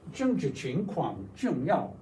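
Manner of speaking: slow, toned Mandarin reading; careful Mandarin demonstration; Chinese pronunciation. Shown as a demonstration. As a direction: read it slowly with Chinese tones. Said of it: "Nice Chinese feeling to it".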